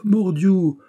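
high, loud sudden oath. A narrator's reading. D'Artagnan swears to himself, loud oath. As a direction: spit out the oath.

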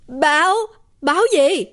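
put-on a startled old man tripping over his words; lắp bắp hoảng hốt; stammering. A narrator's reading. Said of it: "Ông làng lắp bắp".

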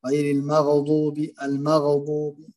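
المغضوب with a bounced ghayn, slow. Shown as a demonstration. Teacher demos a wrong qalqala on the ghayn. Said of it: "قلقلة الغين".

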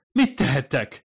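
high, shaky-voiced frightened moan; beg, half in disbelief; moaning plea. Fumiko on the floor moans at the ghost, frightened. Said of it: "nyögdécselte".

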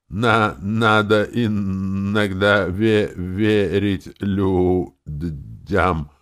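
very slow, stuttering, effortful; stuttering after shock. Acted. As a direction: force the words out through spasms. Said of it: "старательно выговорил он". (заикаясь, очень медленно и с трудом)

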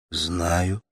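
plain reading voice

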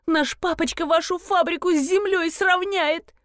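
high frantic wail. A narrator's reading. Pet owner wailing about her missing cat. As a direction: wail in panic over the lost pet. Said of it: "Громкий вопль взметнулся к потолку".

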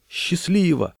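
high, carrying goodbye; acted call across a distance; calling farewell. A narrator's reading. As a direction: call good luck to departing friends. Farewell called from the shore.

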